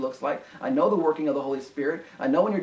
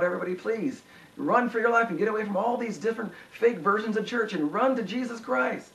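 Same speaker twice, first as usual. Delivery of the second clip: high-pitched preaching appeal, retold; urgent sermon quote, raised pitch; imitated preacher's plea; 7 semitones higher than usual. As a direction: plead with the congregation like a preacher. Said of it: "was preaching one of his best sermons".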